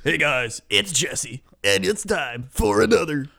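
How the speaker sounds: lightly imitated host intro, rising at the end; a hint of a co-host's presenter voice; Jesse Cox. Imitating co-host's other videos to their face, lightly voiced. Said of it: "Everything else is like".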